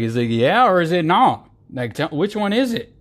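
high, pushy which-is-it; exasperated demand. Retold or imitated. Demanding a straight answer from a singer, exasperated. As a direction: press them for a straight answer. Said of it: "I was like".

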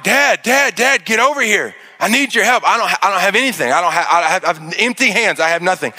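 pleading with dad, a bit rushed; urgent call. Retold or imitated. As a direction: son calling dad to come help, urgent. Calling dad for help.

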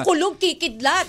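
mock witchy incantation; witch-like curse. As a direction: call down thunder like a pretend witch. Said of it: "Very witch yung dating".

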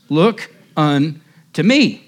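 slow reading. Shown as a demonstration. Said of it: "the text says".

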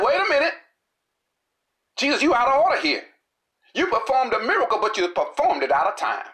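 indignant ruler. Acted. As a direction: scold Jesus like an offended official. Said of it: "he answered with anger".

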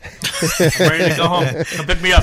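put-on whiny child, high and loud; whiny kid voice. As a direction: whine like a kid wanting to leave. Mock kid on phone.

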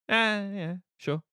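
a hint of a jaded grim reaper; Death's weary answer. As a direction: shrug it off like Death who has heard it all.

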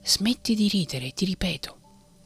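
voiced menace breaking the whisper; threatening shout. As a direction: raise it to a mock threat. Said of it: "urlò con voce minacciosa".

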